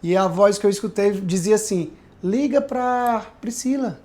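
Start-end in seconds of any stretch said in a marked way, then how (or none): 2.2-4.0 a gentle voice nudging him to call; gentle inner voice. Retold or imitated. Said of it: "É uma voz bem harmoniosa".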